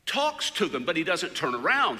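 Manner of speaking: ordinary delivery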